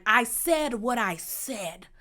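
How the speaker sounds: slow, emphatic catchphrase delivery; deliberate imitation with stretched-out words; Tyler Perry voice. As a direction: draw out each word like a stage diva. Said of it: "in her best Tyler Perry voice".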